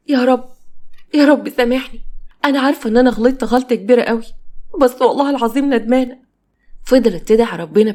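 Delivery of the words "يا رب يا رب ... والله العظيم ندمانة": tearful prayer. Acted. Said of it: "وهي بتعيط جامد".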